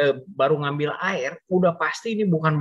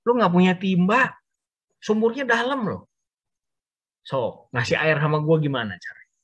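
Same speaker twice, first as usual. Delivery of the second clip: challenging mockery; 4 semitones higher than usual. Woman challenging Jesus.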